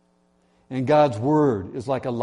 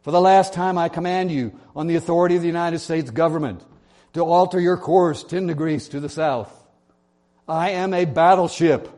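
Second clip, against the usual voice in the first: loud, higher furious commands; yelling captain; 4 semitones higher, 4 dB louder than usual. Acted. Riled captain yelling his final order at the private, enraged. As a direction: yell it like a captain who has lost patience. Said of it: "he yelled back on the radio".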